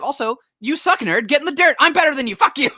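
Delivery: high, loud, hammed-up gloating; gloating taunt. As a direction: jeer at him like a smug hero. Sonic gloating, retold.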